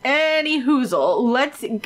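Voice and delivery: drawn-out goofy segue; silly, slowed-down transition; odd silly voice. Real, not acted. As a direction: stretch it out playfully. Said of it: "why am I talking the way that I am?".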